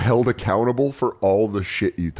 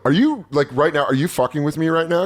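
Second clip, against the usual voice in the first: exasperated; 5 semitones higher than usual. Retold or imitated. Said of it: "I just go".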